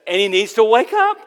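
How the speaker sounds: high, loud taunt; mocking. Elijah mocking the prophets' silent god, high jeering. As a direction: jeer as if rousing a sleeper. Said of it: "Elijah began to mock them".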